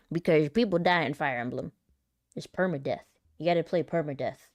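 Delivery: ordinary talk, nothing marked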